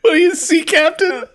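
high, squeaky pirate voice; hammed-up pirate mate; robot pirate voice. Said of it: "Robot voice pirate?".

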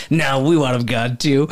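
lightly voiced Tennessee kid; little Tennessee boy. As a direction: imitate a small boy's Tennessee twang. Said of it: "he sounds like a little Tennessee boy".

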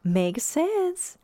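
high, giggly reply; giggling. Acted. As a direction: giggle it out lightly. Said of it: "Kate giggles".

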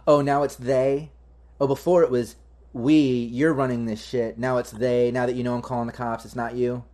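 mildly mocking, pointed comeback; sassy. Game master voices an annoyed official challenging the player, sassy. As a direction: throw it back with sass. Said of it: "sassy as fuck".

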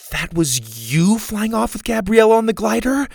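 high, loud angry question. A narrator's reading. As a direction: demand it angrily. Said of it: "Susie asked angrily".

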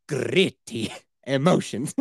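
slow, laughing delivery; laughing drawl. Real, not acted. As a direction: drag it out while laughing.

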